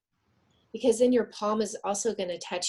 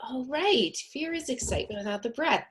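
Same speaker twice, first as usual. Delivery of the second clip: raised pitch, recalling an aha moment; sudden realization; 6 semitones higher than usual. Retold or imitated. Recalling her own book's tip, with dawning realization. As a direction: relive it clicking into place. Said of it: "I just thought".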